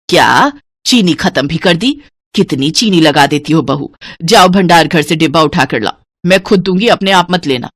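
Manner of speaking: put-on mildly scolding older woman; disapproving orders to a daughter-in-law; lightly voiced household boss; stingy mother-in-law. Mother-in-law scolds over sugar.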